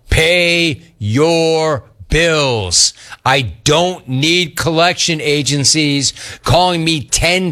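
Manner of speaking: punchy rant read, very slow on the demands; listener-beef read. Acted. Host reads Abby's collection agencies beef, as a slow punchy rant. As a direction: spell out the demand word by word.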